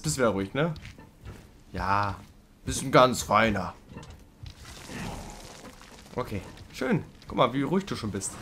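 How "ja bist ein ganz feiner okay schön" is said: slow, doting pet talk; drawn-out coo; cooing pet praise. Real, not acted.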